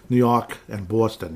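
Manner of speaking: slow mock East Coast vowels; East Coast accent. Shown as a demonstration. Podcaster showing the two cities' accents, East Coast accent. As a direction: draw out a Boston-New York accent. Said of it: "East Coast accent".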